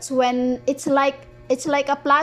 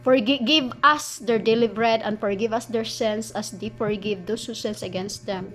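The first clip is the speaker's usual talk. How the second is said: measured, deliberate prayer line; his own wording; 2 semitones lower than usual. Shown as a demonstration. Correcting the common version with his own prayer wording. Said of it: "No, I say".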